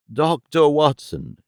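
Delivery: slow, urgent calling of the name; excited. Acted. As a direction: call it out urgently. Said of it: "he repeated excitedly".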